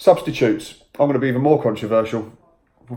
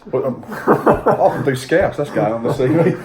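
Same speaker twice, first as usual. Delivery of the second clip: laughing; 4 semitones higher, 4 dB louder, slower than usual. Real, not acted. Laughing after accent banter.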